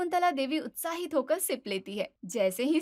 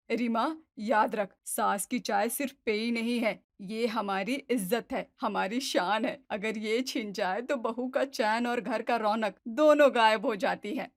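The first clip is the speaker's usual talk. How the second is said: stern lecture; 3 semitones lower than usual. Acted. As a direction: lay down the law about her tea. Mother-in-law lecturing daughter-in-law.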